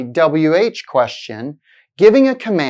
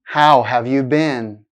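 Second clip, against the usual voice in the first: slow question that falls on "been"; falling intonation; 3 semitones lower than usual. Shown as a demonstration. Teacher models a WH question for learners, falling intonation. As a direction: ask it slowly and let "been" drop. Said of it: "sounds like a fall in the pitch".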